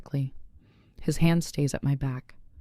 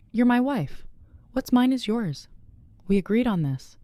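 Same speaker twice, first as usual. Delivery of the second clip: insistent, much higher-pitched reply; brooking no argument; 8 semitones higher than usual. A narrator's reading. Husband overruling wife's refusal of money, no argument allowed. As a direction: cut off the protest, pitched up and insistent. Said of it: "His tone brookings no argument".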